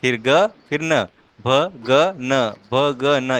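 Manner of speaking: slow letter-by-letter भ, ग, न; slow spelling. Shown as a demonstration. Teacher spells the letter order for the child, slow. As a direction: spell the sequence out slowly. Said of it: "इस तरह से आपका sequence होना चाहिए".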